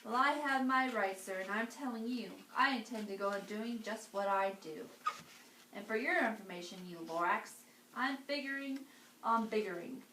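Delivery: angry yell. Acted. Onceler yells at the Lorax, hammed-up angry shouting. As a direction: yell back, defiant and puffed up. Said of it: "I yelled at the Lorax".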